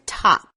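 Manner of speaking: "top" with the "ah" in the middle stressed; emphasized middle vowel. Shown as a demonstration. Teacher showing how to say the word top, middle "ah" emphasized. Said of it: "emphasizing the ah in the middle".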